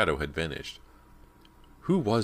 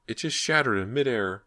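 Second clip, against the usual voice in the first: dazed repeating; 7 semitones higher than usual. A narrator's reading. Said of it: "Ginny repeated".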